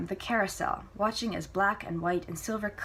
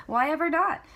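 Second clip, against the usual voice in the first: put-on higher, louder young woman; Celia's lively reply; 10 semitones higher, 6 dB louder than usual. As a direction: toss it back brightly, surprised. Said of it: "Celia responds".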